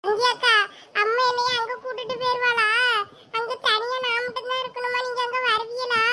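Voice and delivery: put-on a young girl's voice, crying as she asks; tearful girl. Girl begs her aunt not to be left alone, crying. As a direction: plead through tears, scared of being left alone. Girl fears being taken away.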